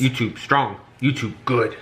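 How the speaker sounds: punchy, chopped mock-primitive delivery; playful broken-English declaration; mock caveman talk. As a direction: say it like a simple caveman, amused. Mock broken speech for non-techie.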